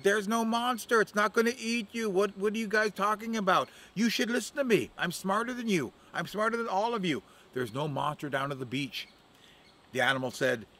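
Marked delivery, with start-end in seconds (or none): 0.0-9.1 high, cocky bird voice; a know-it-all crow crowing over the others; boastful Crow. Acted. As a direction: Crow bragging he is smarter, pitched high.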